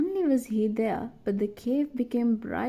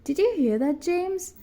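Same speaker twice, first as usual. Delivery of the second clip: high, eager, a bit louder; excited boy's voice; excitedly; 8 semitones higher, 3 dB louder than usual. A narrator's reading. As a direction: blurt it out on hearing her. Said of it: "Mark said excitedly".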